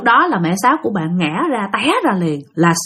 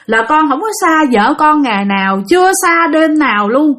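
crying, begging; 6 semitones higher, 3 dB louder than usual. Retold or imitated. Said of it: "khóc nói".

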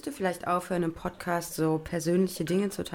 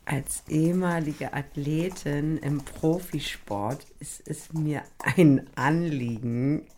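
slow mock-formal reading; slow ironic read-aloud; reading out mockingly; 4 semitones lower, much slower than usual. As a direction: drag out the cover letter phrase with irony. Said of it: "Was ist doch so?".

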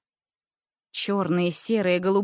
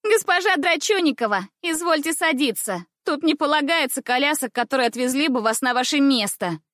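mock her classmate, high and bright; mocking shout; 6 semitones higher than usual. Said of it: "кричала она".

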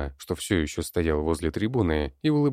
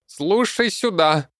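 shrill high creaky shout, slow; high screechy goblin yell; 13 semitones higher, 6 dB louder, slower than usual. A narrator's reading. Goblin yells at the seated crowd, high and creaky. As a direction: goblin boss screeching at his people. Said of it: "Высоким скрипучим голосом заорал Зелёный".

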